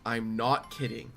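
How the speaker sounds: low, soft, grave build-up; deadly serious. Retold or imitated. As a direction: drop low and pause for suspense. Ominous build-up to shocking question.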